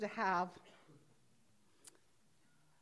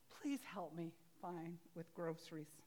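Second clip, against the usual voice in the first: soft plea; 4 semitones lower, 7 dB quieter than usual. Retold or imitated. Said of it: "asked God".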